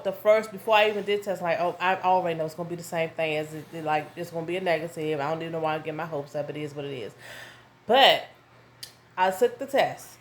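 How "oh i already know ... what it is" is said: fast, low and resigned, quieter at the end; resigned inner thought. Retold or imitated. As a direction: rattle it off as if it never works. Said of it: "my initial thought".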